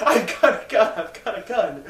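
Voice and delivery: imitating a scared man's shout, starting high; mock frightened shout. Retelling a TV clip of a man shouting about a gun, mock frightened shout. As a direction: retell a panicked yell, dropping off on the repeat. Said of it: "just shouting".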